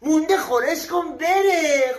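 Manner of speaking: mildly shouted command; exasperated yell. Acted. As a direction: bellow it slowly in mock exasperation.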